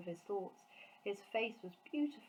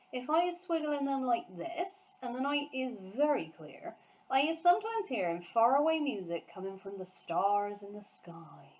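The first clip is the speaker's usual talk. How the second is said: giant voice lifting with wonder, fading at the end; 5 semitones higher, 6 dB louder than usual. A narrator's reading. Giant telling Sophie of star music, wondering giant voice. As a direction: share a secret marvel.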